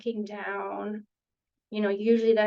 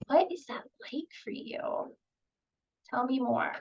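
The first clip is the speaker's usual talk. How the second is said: empathy. Shown as a demonstration. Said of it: "getting to some empathy".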